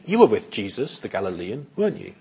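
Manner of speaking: note it mildly, without accusing; casual observation. Acted. Servant girl remarks to Peter, a soft casual observation. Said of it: "just a sort of observation".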